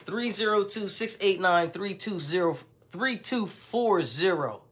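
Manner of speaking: deliberate number readout, last "Three two four zero" drawn out; digit by digit. Shown as a demonstration. Vlogger repeating the phone number for the slow people, deliberate digit by digit. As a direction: spell out each digit, "zero" in full, slowing right down at the end. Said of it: "Gotta say it like that".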